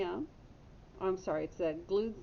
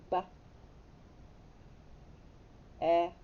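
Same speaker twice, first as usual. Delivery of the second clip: whispered spelling. Shown as a demonstration. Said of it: "Watch me".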